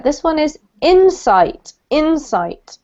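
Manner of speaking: IN-sight, first syllable stressed. Shown as a demonstration. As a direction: lean on the first syllable of insight. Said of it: "put the emphasis on the wrong syllable".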